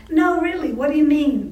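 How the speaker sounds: mildly imitated insistent demand; pushy insistence. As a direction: push him for a real answer. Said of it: "I push people".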